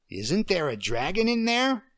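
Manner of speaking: a little girl playing queen; child playing queen. Emily playing the queen for Deirdre.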